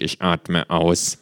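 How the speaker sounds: slow, grim breathing mantra. A narrator's reading. Patient calming himself amid chatter, slow and grim. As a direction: drag it out with grim resolve. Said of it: "sag ich grimmig".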